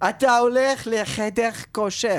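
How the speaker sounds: put-on Hebrew with a heavy French accent; a Frenchman giving orders in Hebrew. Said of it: "יש לך רק מבטא צרפתי".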